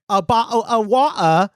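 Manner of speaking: a light mock-baffled repeat; incredulous echo. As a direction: echo it back in amused disbelief. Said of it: "And I was like".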